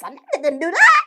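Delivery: laughing through it; laughing disbelief. Real, not acted. Ranting at a scammer, laughing in disbelief.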